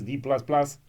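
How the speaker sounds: breathy whisper, D plus plus under the breath; whispered aside. Real, not acted. Reviewer muttering the real grade to viewers, whispered. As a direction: slip the real grade in as a secret.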